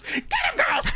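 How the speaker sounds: very high squealed mock command; little girl siccing her troop on him; Girl Scout war cry. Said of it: "she just goes".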